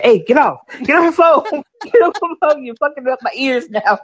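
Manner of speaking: shrill panicky shout; high panicked yell. Retold or imitated. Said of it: "I was like".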